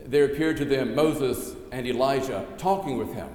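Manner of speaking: measured, solemn reading of the Gospel aloud; scripture reading. Acted. Pastor reading the Gospel lesson to the congregation, solemn reading voice.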